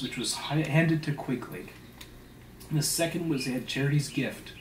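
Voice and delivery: measured, theatrical storytelling voice; story narration. A narrator's reading. Narrator reading a whaling tale aloud, story narration. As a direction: read it out with deliberate, rolling phrasing.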